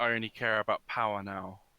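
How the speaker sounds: ordinary talk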